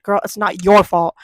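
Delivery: pointed passive aggression. Retold or imitated. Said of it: "Made sure she heard that".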